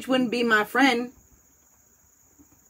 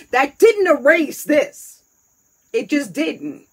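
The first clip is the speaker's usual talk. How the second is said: laughing through tears; 7 semitones higher, 6 dB louder, slower than usual. Real, not acted.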